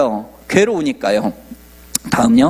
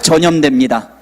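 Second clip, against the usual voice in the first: call to repeat. Shown as a demonstration. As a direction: say it so they can repeat it. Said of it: "한번 따라해 보시겠어요".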